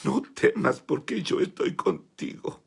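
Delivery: slow, gentle voice of Jesus. Retold or imitated. Jesus calling the boy by name, slow and gentle. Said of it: "y me dijo".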